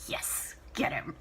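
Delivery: slow, breathy whisper; hushed private aside. Real, not acted. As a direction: murmur it under your breath. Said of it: "whispered aside".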